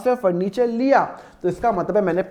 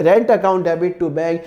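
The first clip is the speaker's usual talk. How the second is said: slow, deliberate, each word spaced out; slow dictation; 3 semitones lower, much slower than usual. Shown as a demonstration. Teacher restating the bank entry for students, slow and deliberate. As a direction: lay the entry down clearly for the board. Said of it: "bank की entry यहाँ पे आएगी".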